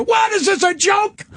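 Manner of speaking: angry judge. Retold or imitated. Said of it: "The fucking judge".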